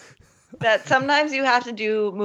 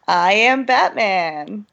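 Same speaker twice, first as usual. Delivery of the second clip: gravel-free Batman line; much slower than usual. Pretend. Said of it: "Do the voice".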